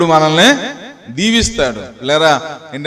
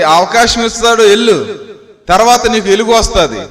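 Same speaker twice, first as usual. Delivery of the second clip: preaching; 4 semitones higher than usual. Real, not acted. Preaches scripture with raised voice.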